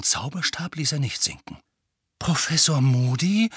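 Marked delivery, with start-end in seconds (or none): 2.2-3.5 unsure. Acted. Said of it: "sagte er unsicher".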